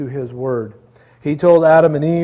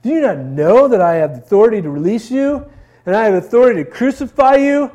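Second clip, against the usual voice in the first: Pilate demanding; 6 semitones higher, 4 dB louder than usual. Acted. Pilate questioning silent Jesus.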